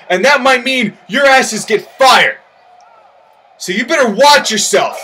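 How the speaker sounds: stern, heated warning from the boss; company owner threatening rivals, mildly angry; angry threat. Acted. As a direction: lay down the law to the rival team. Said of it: "I'm just completely pissed off and angry".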